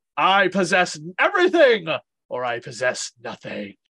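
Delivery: grand, stately, swooping villain voice. Quoting a villain's line while comparing film villains, stately Skeletor voice. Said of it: "he says it so like stavely".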